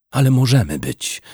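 unhurried, drawn-out offer; a touch slow and seductive; slowly. A narrator's reading. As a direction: let each word linger, inviting. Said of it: "powiedziała wolno".

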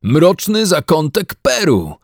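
slow, high impressed exclaim. A narrator's reading. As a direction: say it deeply impressed. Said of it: "wykrzyknął mężczyzna wyraźnie pod wrażeniem". (z podziwem)

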